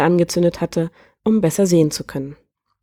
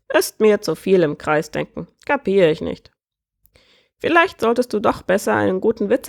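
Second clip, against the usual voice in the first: bird voice rising into the riddle; croaking bird prince, joking; 3 semitones higher than usual. Acted. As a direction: play a bird keen to tell his joke. Bird prince tells joke.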